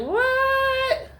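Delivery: a stunned exclamation; shocked what. Retold or imitated. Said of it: "I'm like".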